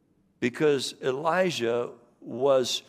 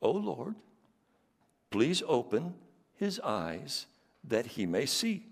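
prophet's prayer; 3 semitones higher than usual. Acted. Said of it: "Elijah prayed and said".

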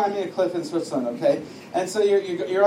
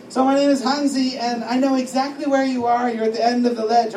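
higher friendly stranger's voice; lightly acted, raised voice; lightly voiced Hansi; 4 semitones higher, 4 dB louder than usual. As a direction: introduce yourself as a helpful Swiss stranger. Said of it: "And the voice says".

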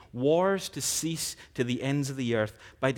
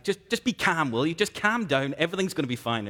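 higher, louder mock nagging to calm down; pushy calming parent; 3 semitones higher, 5 dB louder than usual. Preacher mimicking a parent telling a worried child to calm down, higher and louder. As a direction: play the spouse who insists you relax, a bit raised.

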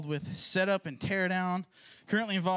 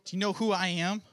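put-on teen voice; 3 semitones higher than usual. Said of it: "age accuracy voice".

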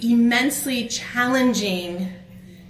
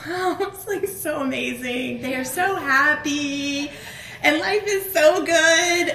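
hammed-up dreamy gushing, higher and slow, a laugh in it; mock gushing; 5 semitones higher, slower than usual. Speaker mocking perfect lives on Facebook, slow mock gushing. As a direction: drawl it out like a too-perfect Facebook post.

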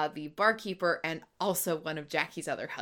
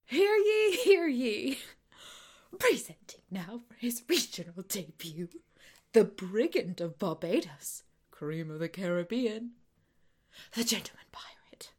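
town crier. Retold or imitated. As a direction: proclaim it like a nervous herald. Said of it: "Lucius's rehearsed introduction".

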